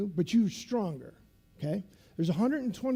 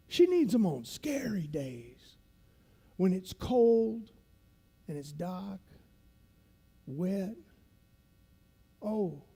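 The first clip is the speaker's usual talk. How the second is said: lightly imitated veteran instructor, deliberate with long pauses; instructor's voice. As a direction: lecture recruits in the old instructor's measured manner. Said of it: "he talks like this".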